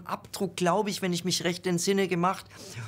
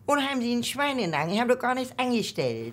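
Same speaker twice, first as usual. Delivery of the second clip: put-on higher, quick old Hamburger protesting; Hamburg cliché voice; 4 semitones higher than usual. Shown as a demonstration. Actor shows how they play old Hamburgers, Hamburg cliché voice. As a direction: demonstrate an old Hamburg character voice. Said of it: "wie ein Hamburger".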